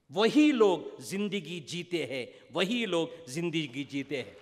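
measured, declaimed Hindi verse; poem recitation. Acted. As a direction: recite the poem to a hall, pausing to translate.

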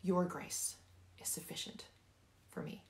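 "Your" leaned on, then a hushed tail; weight on "Your", trailing softly into the rest; stress on YOUR. Shown as a demonstration. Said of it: "I want you to emphasize each word".

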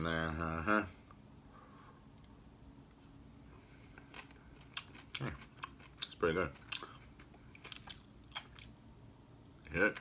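talking between bites; chewing while talking. Real, not acted. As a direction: mouth partly full. Seen 1: bit truffle just before; bitten half in hand, jaw working.

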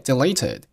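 "deleted" with it joined on the end; linked words. Shown as a demonstration. Teacher showing learners linking, "deleted" and it run together. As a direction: run "deleted" straight into it as one word. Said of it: "deleted和it连读成了".

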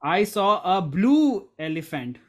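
demonstrative emphasis on "blue"; stress on blue. Shown as a demonstration. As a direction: hit the word "blue" hard. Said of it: "Yes, it was a blue one".

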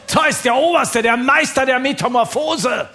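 slow, booming-volume build-up of a mighty title; grand announcement. Acted. Comedian introduces the chief god Zeus to the audience, grand proclamation. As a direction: proclaim it high, loud and drawn out.

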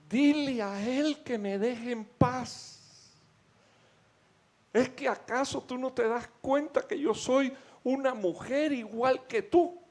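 high, slow, eerie voice of a female demon. Acted. Demonio en la mujer tirada en el piso, suplicando a la esposa, voz alta y lenta. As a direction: let the spirit plead, high and drawn out. Demon speaks through the woman.

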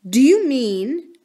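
slow, wavering question; a touch of dread, slowed down; faltering, slow, fearful. Acted. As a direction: hold back as if scared to ask. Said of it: "she faltered".

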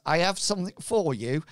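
quick Somerset farmer voice; Somerset farmer accent. Acted. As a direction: slip into a West Country farmer accent. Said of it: "went into Somerset Farmer voice".

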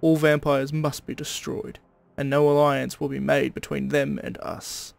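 steady Aussie twang, read like a stern proclamation; a guard leader's decree in an Australian accent. Acted. Guard founder warns his men against vampires, Australian accent. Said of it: "I made him more Australian than I am".

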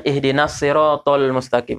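siratal with thin ta, only the vowel rounded to o; wrong light ta. Shown as a demonstration. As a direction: recite "ihdinas siratal mustaqim" with an ordinary t. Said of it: "Huruf ta". (siratal salah, huruf ta dengan vokal o)

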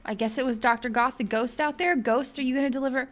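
usual speaking voice

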